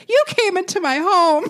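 hammed-up soap diva line; soap opera delivery. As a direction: sell it like a soap opera star. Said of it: "she says".

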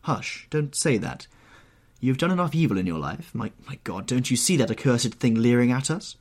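high, agitated plea; horrified urging. Acted. Painter points at accursed portrait, horrified. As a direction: hush him, then press on in alarm.

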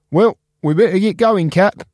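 high, upbeat reassuring friend; Spark cheerful. Acted. Spark cheering up Cap about the recycling machine. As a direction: promise him a fresh start.

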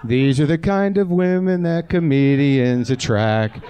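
slow, put-on announcer voice; lightly hammed-up narrator voice; mock announcer. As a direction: read it slow like a sardonic narrator.

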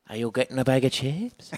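mock Limerick accent with a little lift at the end; Limerick accent, upward inflection. Shown as a demonstration. Teasing Limerick locals at the chipper, Limerick lilt. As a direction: lightly sing the Limerick inflection on the last word. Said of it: "with a little inflection at the end".

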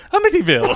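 laughing "Amityville" as uh-MIT-ee-ville; odd pronunciation. Retold or imitated. Joining in mimicking the friend, "Amityville" said uh-MIT-ee-ville. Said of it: "she says it Amityville every single time".

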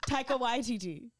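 "Waititi" with emphasis on the first syllable; stress on WAI. Shown as a demonstration. Practising the name for a co-host, stress on "Wai" in "Waititi". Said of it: "the emphasis is on Y".

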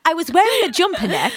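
high laugh, then words still giggling; embarrassed giggly confession. Real, not acted. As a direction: laugh it off at her own slip. Laughing at her own word slip.

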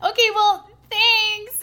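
high, loud, forced thanks; awkward politeness. Retold or imitated. Storyteller repeating what she told him, awkwardly polite. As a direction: push out an uncomfortable, over-polite thank-you.

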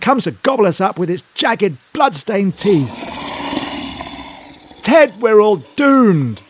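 slow, high wailing dread; hammy terror. Acted. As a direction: wail it out like doom is certain. Hammy panic at the monster.

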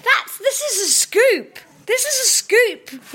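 thrilled by the gossip; excited disbelief. Real, not acted. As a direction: announce a scoop with glee. Excited reaction to the news.

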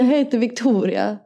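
tentative Gotland dialect attempt; Gotland accent. Introducing herself in the dialect challenge, Gotland accent. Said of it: "det är gotländska".

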